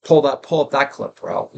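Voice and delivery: light bro-ish podcast host voice; a hint of a hyped bro; Joe Rogan impression. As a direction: call for the clip like a pumped-up host. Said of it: "Joe Rogan's always ... except when he says".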